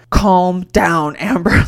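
loud, emphatic mock telling-off; retold mad scolding. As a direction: scold the nanny, hitting each word hard. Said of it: "I got so mad at her".

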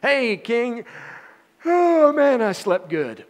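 high, loud, cheery wake-up greeting; chirpy and rested, a playful call; upbeat. Retold or imitated. Daniel greeting the king after a night with lions, upbeat. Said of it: "with such an upbeat".

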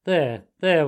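loud, hearty comforting; gruffly kind reassurance; kindly. A narrator's reading. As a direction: console him, still firm-voiced. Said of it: "went on the Badger more kindly".

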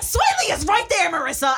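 high, loud mock exasperation; imitated angry scolding. Imitating Mike pointing out a celebrity, angry. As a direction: imitate a friend snapping loudly. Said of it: "got angry at me and was like".

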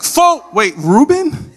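high incredulous double take; mock astonishment. Older brother finding the little one winning, high stunned disbelief. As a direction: jump up in pitch into a baffled question.

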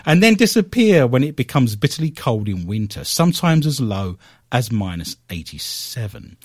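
news read. Acted. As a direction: read out the science bulletin. Resumes the news item.

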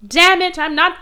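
high, loud exasperated outburst; hammed-up villain frustration; mock frustration. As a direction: curse like a thwarted cartoon villain. Villain's failure, retold.

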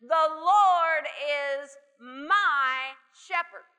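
confident, ringing proclamation; noble proclamation. Retold or imitated. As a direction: proclaim it like a king. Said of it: "with a noble tone of confidence and proclamation".

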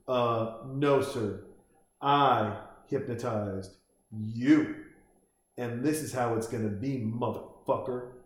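slow, measured mock threat; acted menace. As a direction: draw out the retort with cool, deliberate menace. Kid's menacing retort, acted out.

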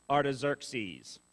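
Artaxerxes said slowly, each syllable clear; careful name. Shown as a demonstration. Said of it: "he's got a name".

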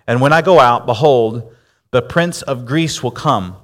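solemn, measured Bible reading; scripture reading. Acted. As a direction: read it like holy text to the congregation.

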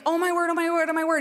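a touch of frantic alarm; retold panic. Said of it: "panic, freaking out, anxiety".

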